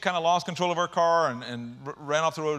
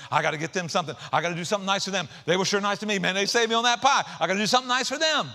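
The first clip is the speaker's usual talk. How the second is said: eager grateful neighbor; 3 semitones higher, 3 dB louder, faster than usual. Retold or imitated. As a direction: gush like a thankful neighbor.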